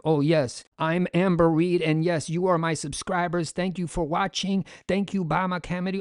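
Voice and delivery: lifeless scripted monotone imitation. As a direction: recite it flat like a bad actor. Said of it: "like, monotone".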